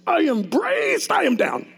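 high, slow, strained effort; straining. Retold or imitated. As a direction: push the words out as if bracing hard. Repeated while fighting to stand.

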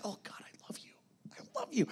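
breathy whisper of love to God; a believer whispering devotion to God, hushed; whispered prayer. Shown as a demonstration.

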